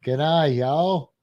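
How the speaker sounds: lightly Australian "G'day, y'all"; attempted Australian accent. Shown as a demonstration. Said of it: "y'all in an Australian accent".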